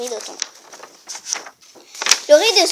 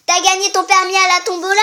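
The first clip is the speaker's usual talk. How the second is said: sneering taunt; 4 semitones higher, 6 dB louder than usual. Acted. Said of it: "en ricanant".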